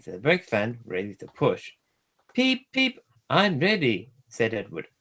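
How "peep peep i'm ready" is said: high peeping whistle then bright reply; cheerful little engine. A narrator's reading. Edward ready to push Gordon, high peeping whistle. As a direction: peep like a small engine whistle.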